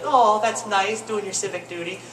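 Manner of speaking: lightly voiced sweet old lady; a touch of grandma sweetness; a hint of sweet old lady. Comic voicing old lady praising voting, lightly sweet. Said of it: "if I make this voice".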